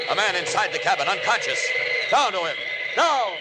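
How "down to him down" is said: higher urgent call; urgent diving call; urgent cry. Acted. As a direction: dive in with one sharp cry. Superman dives to cabin.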